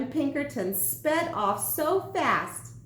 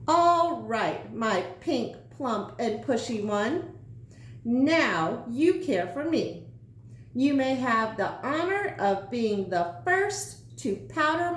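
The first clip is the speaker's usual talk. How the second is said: bossy sandwich. Acted. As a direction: order him about with mock congratulations. Sandwich giving orders.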